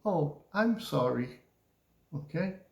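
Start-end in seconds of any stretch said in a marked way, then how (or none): 0.0-1.4 mildly sorry, tone dropping; sad falling tone. Shown as a demonstration. Teacher demonstrating a sad apology to students, falling tone. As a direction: let the tone sink in gentle apology. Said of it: "goes down too".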